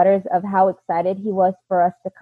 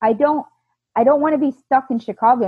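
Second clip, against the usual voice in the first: retold panic; 4 semitones higher than usual. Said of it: "freaking out".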